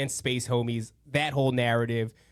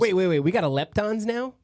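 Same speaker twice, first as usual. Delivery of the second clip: incredulous interruption; 7 semitones higher than usual. Real, not acted. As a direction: stop him in disbelief. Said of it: "Making shit up".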